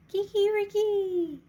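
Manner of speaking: high, slow, ringing rooster crow; loud drawn-out cock-a-doodle. Acted. Rooster crows in story.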